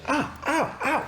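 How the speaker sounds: high, short "ow" yelps; high-pitched mock pain cries; acted yelps of pain. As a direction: yelp as if stung in the neck. Woman hit in neck by dart.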